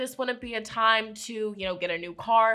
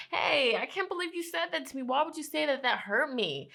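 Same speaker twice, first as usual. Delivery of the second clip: higher, softer mock-hurt confrontation; hurt complaint; 3 semitones higher, 4 dB quieter than usual. A loved one confronting you over past words, mock hurt. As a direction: act out a wounded loved one, pitched up then dropping.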